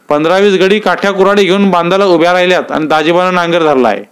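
worried villager. Acted. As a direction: push the urgent news at them.

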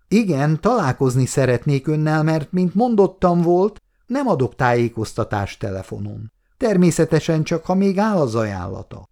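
a touch of condescension; slightly condescending. Acted. Agent pressing the client on the phone, mildly condescending. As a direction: talk down to him just a little. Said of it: "kissé lekezelő hangsúllyal".

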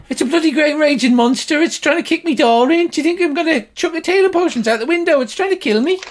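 very high, loud, frantic protest; indignant shouting. Acted. Healer refuses to help a raging monster, high indignant shouting. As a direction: rant loudly at the top of the voice.

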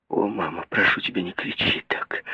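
soft, hushed plea, fading to a whisper; pleading. A narrator's reading. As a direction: beg her quietly to stop. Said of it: "умоляла Мэри".

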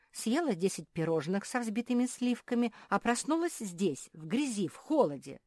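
high-pitched aggrieved complaint; indignant lament. Acted. Marsia bemoans waking in dirt, indignant lament. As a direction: list the lost luxuries with indignation.

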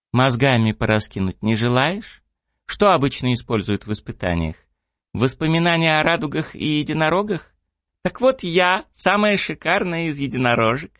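high, teasing pony voice; a lightly voiced cheeky unicorn; playful unicorn girl. Unicorn character voiced by narrator.

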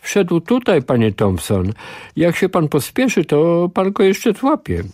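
put-on child helping Mr Thompson find Reader; animated child. A narrator's reading. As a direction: tell the grown-up eagerly. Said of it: "ożywiony głos dziecka".

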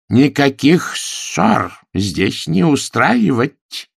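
slow, loud and firm; stern command. A narrator's reading. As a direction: order them like a strict governess. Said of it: "воскликнула она". (строгий приказ)

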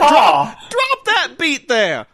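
high, slow redneck holler; redneck Cockney. Acted. Prole cheering on the machine-made music, redneck Cockney. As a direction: drawl it out like an excited hick. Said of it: "that's how they speak".

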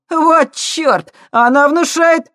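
high loud cocky lad's voice; brash punk. A narrator's reading. Punk on a boat gawking at the ship, brash and loud. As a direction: gawp and shout like a street punk.

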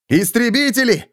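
high call across the wall. A narrator's reading. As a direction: call out to them. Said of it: "позвал Феликс".

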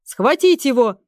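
barked loud command; captain of the guard shouts at his men; shouting order. A narrator's reading. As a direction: order the arrest. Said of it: "закричал начальник караула".

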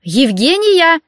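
hollering for her sister to come; barking call. A narrator's reading. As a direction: bark the name across the flat. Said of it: "снова рявкнула".

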